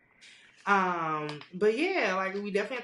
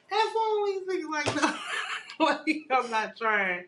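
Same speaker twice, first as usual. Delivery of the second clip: dismissive brush-off; 9 semitones higher, 3 dB louder than usual. Retold or imitated. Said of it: "and I'm just like".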